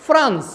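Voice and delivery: France with a clear F; France as a crisp model word; correct pronunciation. Shown as a demonstration. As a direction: say France starting on F, not P. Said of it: "you will pronounce".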